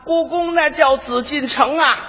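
a hint of an eager old grandpa giving directions; helpful old Beijing man. Old man explains the way to a tourist, lightly voiced and unhurried.

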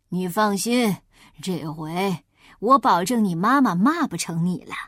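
a wolf hiding his plan; sly wolf. Acted.

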